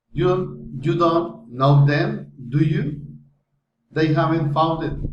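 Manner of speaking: statement, then "do you" as a separate tag; tag question intonation. Shown as a demonstration. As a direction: set off "have they" and "were you" with their own tune. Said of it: "falling or rising intonation".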